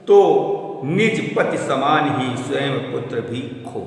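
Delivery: slow classroom poetry recital; poem recitation. Acted. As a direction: declaim the verse slowly to the class. Recites the lines again.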